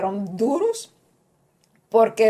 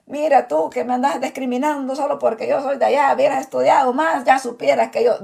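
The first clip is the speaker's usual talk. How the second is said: higher, mock rebuke as if offended; a lightly hammed-up scolding; mock scolding Jesus; 5 semitones higher than usual. Jesus as he does not talk to Nathanael, higher mock scolding. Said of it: "no le está diciendo".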